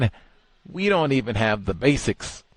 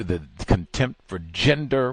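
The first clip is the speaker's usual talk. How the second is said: ordinary talk, nothing marked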